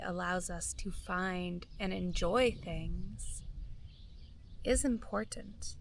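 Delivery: calm, measured meditation voice with long pauses; guided meditation. Real, not acted. Guide inviting listeners to feel gratitude for their bodies, calm meditation voice. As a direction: guide listeners gently inward, phrase by unhurried phrase.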